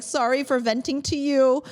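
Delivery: high-pitched mock apology; apologetic. Speaker apologizing to best friend for venting, apologetic.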